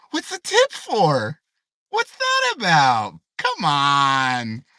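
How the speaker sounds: can't believe they want a tip; exasperated outrage. Real, not acted. Ranting to viewers about a coffee tip, incredulous.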